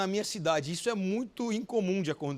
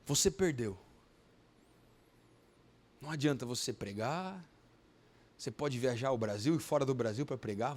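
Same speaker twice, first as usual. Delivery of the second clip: low, quiet taunting voice; voice of Satan; 8 semitones lower, 5 dB quieter than usual. Retold or imitated. Voice of Satan taunting the grieving pastor, low and quiet. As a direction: let a dark voice whisper defeat low and soft. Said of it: "foi a voz do, do, de Satanás".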